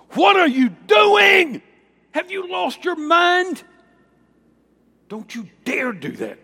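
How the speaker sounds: horrified shout at a man bowing. Acted. Angel horrified at John bowing, shouting high.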